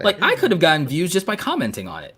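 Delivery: talking through laughter; laughing. Real, not acted. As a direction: laugh out the line.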